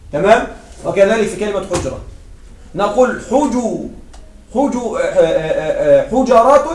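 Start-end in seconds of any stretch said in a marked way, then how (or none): 6.1-6.6 حجرات said ḥujarāt, open a after the j; plural with fatha. Shown as a demonstration. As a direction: say حجرات as hu-ja-rāt. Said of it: "هذا مع الفتح". (حجرات بفتح الجيم: حُجَرات)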